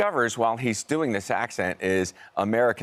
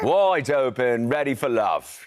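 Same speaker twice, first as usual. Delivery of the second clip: lightly put-on London tough-guy accent; drawn-out, louder London swagger at the start; 3 semitones higher, 4 dB louder, slower than usual. Actor voicing his London tough-guy character, mock London accent. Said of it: "with this tough guy accent".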